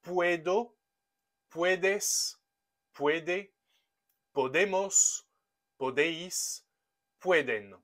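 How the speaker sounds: each form read out on its own with a pause after it, Spanish vowels in "Puedo" and "pueden"; Spanish conjugation drill. Shown as a demonstration. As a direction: model the forms one by one for learners. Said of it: "il va se conjuguer comme ceci".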